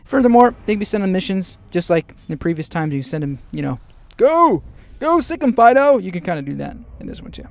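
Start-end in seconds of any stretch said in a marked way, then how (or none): 4.2-6.0 high, loud "sic 'em" to a dog; mock dog command. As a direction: egg on the orc like a pet dog.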